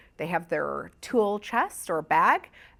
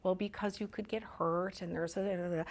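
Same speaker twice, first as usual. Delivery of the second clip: mom; 2 semitones higher, 6 dB quieter than usual. Acted. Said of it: "a mom will tend to be like".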